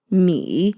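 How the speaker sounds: mi, falling then rising third tone. Shown as a demonstration. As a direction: dip down on mi. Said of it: "third tone".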